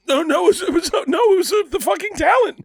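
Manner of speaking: high, laughing protest; cracking up correcting his friend. Real, not acted. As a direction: laugh your way through the denial. Laughing denial of a guess.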